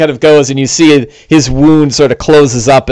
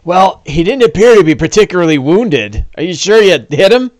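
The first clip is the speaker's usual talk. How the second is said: lightly voiced orc, a little higher; a hint of an orc questioning; 3 semitones higher than usual. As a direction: orc sounding doubtful. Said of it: "the orc's like".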